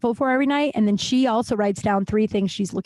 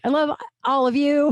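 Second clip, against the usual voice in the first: loving shout; 5 semitones higher than usual. Real, not acted. Shouting love to listeners.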